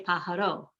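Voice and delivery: "pajaro" stressed on the last syllable RO; wrong final stress. Shown as a demonstration. Teacher showing what not to say, "pajaro" stressed on RO. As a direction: move the stress of "pajaro" onto RO. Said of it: "You do not want to say".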